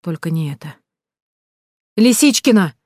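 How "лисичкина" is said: loud, higher call across the park; shouting a name. A narrator's reading. Heroine shouts for the missing girl in the park. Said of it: "закричала я".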